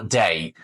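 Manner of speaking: ডে as a gliding "dey"; demonstrated pronunciation. Shown as a demonstration. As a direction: say ডে with a full "ay" diphthong, falling. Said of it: "এখানে যে ডে উচ্চারণ হচ্ছে".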